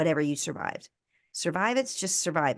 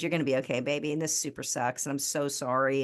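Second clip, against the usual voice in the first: gentle sincere comfort; 3 semitones lower than usual. Retold or imitated. Mother comforting her injured son on the porch: tender, low and sincere. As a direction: hold him with your voice. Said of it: "I just said".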